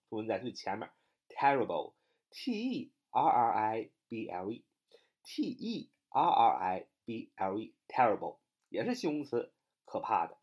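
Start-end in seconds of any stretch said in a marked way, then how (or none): 1.3-8.4 slow spelling. Shown as a demonstration. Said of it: "第二个单词terrible".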